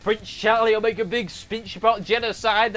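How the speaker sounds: usual speaking voice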